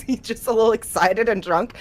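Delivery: ordinary talk, nothing marked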